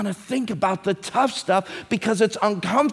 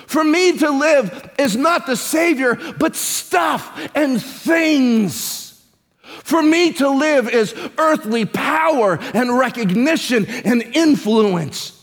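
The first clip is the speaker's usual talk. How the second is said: preaching at full force; 2 semitones higher, slower than usual. Acted.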